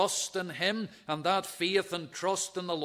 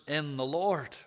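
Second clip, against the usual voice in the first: preacher's emphasis on "in the Lord"; stress on in the Lord. Real, not acted. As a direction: lean on "in the Lord", falling on "Lord". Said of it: "I put the emphasis tonight on those words".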